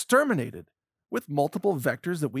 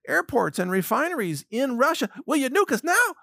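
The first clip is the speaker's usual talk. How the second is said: mock pleading taunt, higher and rising; sarcastic impression of officials daring Russia to nuke them; 5 semitones higher than usual. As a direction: taunt them like a cocky kid begging for trouble. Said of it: "just like begging Russia".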